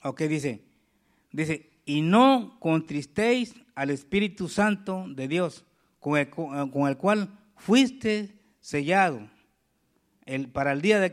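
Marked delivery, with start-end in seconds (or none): 1.8-11.1 scripture reading. Acted. Pastor reads scripture slowly.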